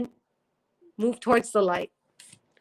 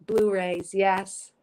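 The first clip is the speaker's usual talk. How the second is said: normal talking voice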